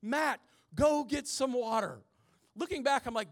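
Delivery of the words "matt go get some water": retold yell. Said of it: "he yells back at me".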